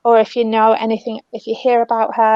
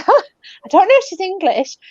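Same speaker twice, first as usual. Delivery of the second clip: laughing; 8 semitones higher than usual. Real, not acted. Medium amused by the spirit's phrasing.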